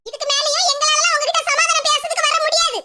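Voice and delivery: firm, indignant mother-in-law laying down the law; a mother-in-law declaring her son will remarry, angry and defiant; angry declaration. Acted. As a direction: announce it to her face, defiant and fed up. Angry mother-in-law confronts family.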